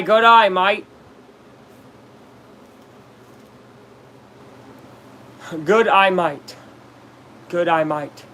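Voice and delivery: lightly put-on Australian accent; a hint of Australian twang; mock Australian accent. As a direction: play at an Australian "g'day mate". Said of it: "You cannot say "good, I might" without sounding".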